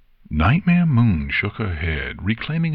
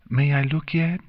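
impatient curiosity; 7 semitones higher than usual. A narrator's reading. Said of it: "when her curiosity was too much".

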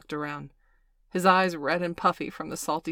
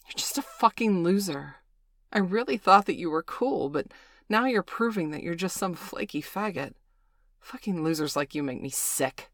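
contemptuous sneer. Acted. Valerie cruelly rejecting Bailey.

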